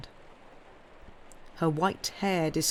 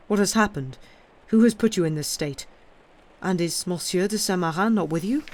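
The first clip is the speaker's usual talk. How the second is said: alarmed questions; 3 semitones higher, 6 dB louder than usual. Acted. Alarmed questions to mother-in-law.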